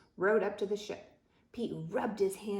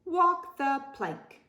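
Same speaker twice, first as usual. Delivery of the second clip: pirate bellow; 6 semitones higher, 3 dB louder than usual. A narrator's reading. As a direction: pass sentence like a pirate captain. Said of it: "cried Pete".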